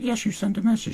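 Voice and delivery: very high bickering falsetto; mock insistence. Host acting Audrey insisting to Zoe, mock-bickering falsetto. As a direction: squeak back in a mock squabble. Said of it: "And she's like".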